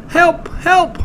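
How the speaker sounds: very high little yelps; two short squeaks for help; squeaky cry. A narrator's reading. Trapped Piglet calling from under Pooh, squeaky. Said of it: "my voice has gone all squeaky".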